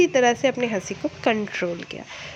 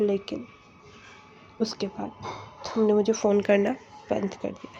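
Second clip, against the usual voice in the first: suddenly serious; 6 dB quieter than usual. Retold or imitated. Ex quoting her, suddenly serious and quiet. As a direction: go straight-faced and hush it. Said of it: "एकदम serious face में कहता है".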